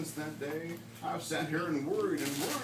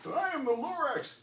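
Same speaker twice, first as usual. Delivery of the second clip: Lorax voice; 7 semitones higher than usual. A narrator's reading. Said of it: "he coughed and he whiffled".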